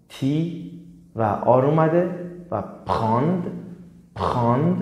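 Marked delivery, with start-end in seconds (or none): 2.5-4.8 پراند with the r as a throaty kh, prendre; French pr sound. Shown as a demonstration. Teacher demonstrating prendre to students: kh-like r. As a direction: push a kh sound after p in پراند.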